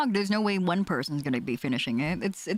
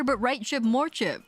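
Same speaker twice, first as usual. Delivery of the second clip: laughing; 4 semitones higher than usual. Real, not acted. Laughing at chip photo.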